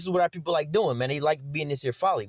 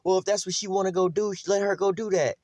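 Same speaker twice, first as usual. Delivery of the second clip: higher, mocking the lax mother; a higher, mocking voice for the careless mother; mock permissive mother; 5 semitones higher than usual. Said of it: "they be like".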